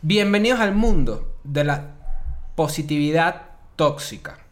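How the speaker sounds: slow, deliberate presenter delivery; measured podcast opening; show intro. Acted. Reads the episode intro.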